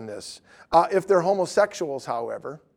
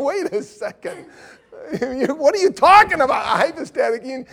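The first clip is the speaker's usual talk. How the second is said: high, incredulous; amazed, can't follow; mock disbelief, raised pitch; baffled reply; 7 semitones higher, 4 dB louder than usual. Retelling his own puzzled reply.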